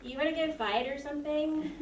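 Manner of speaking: mild swagger broken by giggles; tough-girl taunt. Retold or imitated. Girl taunting a classmate to fight, mock tough and giggling. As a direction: try to sound hard but keep laughing. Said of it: "with this face that wasn't mine".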